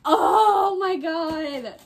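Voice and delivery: slow, loud, teary exclamation; overwhelmed cry. Real, not acted. Vlogger seeing the naked cover, loud teary awe.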